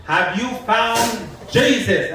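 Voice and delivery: slow earnest question. Retold or imitated. Preacher repeating himself to a passerby, slow mock-earnest.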